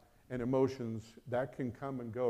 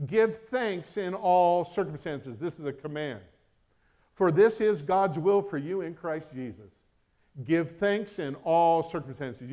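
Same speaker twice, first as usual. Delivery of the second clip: raised, louder sermon voice; forceful preaching; 6 semitones higher, 9 dB louder than usual. Real, not acted. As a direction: press each point on the congregation.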